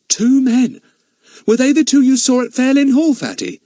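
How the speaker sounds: high, keen question; eager boy voice. Acted. Larry questioning Fatty about the men, eager. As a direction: ask it sharply, eager.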